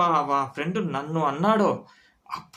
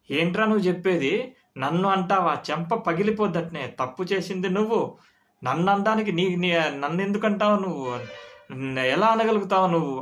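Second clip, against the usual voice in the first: higher, heated retold threat; mock angry uncle; 4 semitones higher than usual. Friend threatens the son, mock anger. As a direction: threaten the boy, half-acted. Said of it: "అని అన్నాడు వాడు మా కొడుకుని కోపంగా".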